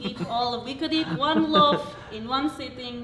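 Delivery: put-on light Slovak accent; a hint of a Slovak accent. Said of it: "like, this for the rest of it".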